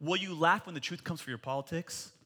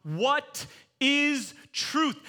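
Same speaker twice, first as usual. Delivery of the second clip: Pilate asking; 9 semitones higher, 6 dB louder, much slower than usual. Retold or imitated. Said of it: "he asks this question".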